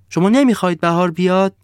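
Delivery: high, loud disbelieving question; incredulous sun. Acted. The sun asking the villagers if they see it, high and loud. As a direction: ask as if they must be blind.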